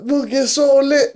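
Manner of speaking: high, slow, sing-song hype line; mock hype. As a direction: hype him up, drawn out. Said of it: "I'm like".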